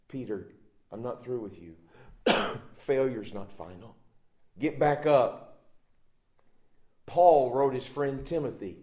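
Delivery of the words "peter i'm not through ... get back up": gentle Jesus. Acted. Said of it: "He's saying".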